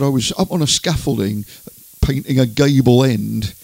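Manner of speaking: imitated Hampshire country accent; Andover accent. Presenter quoting the singer about his builder days, Andover accent. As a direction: retell it in a rural Andover accent. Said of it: "talking in an Andover accent".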